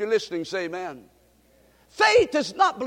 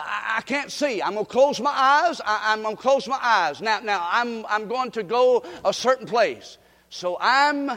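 acting blind. Shown as a demonstration. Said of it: "Watch me now".

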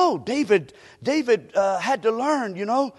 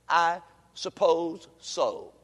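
grudging agreement; much slower than usual. Acted. Believer gives in to the preacher's point, grudgingly. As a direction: give in reluctantly, dragging each word.

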